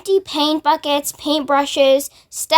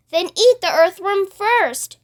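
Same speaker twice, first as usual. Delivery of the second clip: shout; 5 semitones higher than usual. Acted. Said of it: "shouted the centipede".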